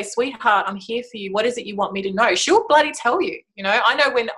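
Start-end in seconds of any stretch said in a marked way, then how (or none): 0.0-2.3 tender reassurance. Shown as a demonstration. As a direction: comfort the little one inside gently. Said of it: "meet that part of you and say".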